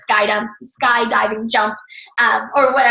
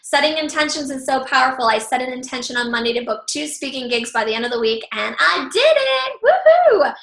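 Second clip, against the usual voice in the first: excited; 2 semitones higher than usual. Retold or imitated. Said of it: "So she says".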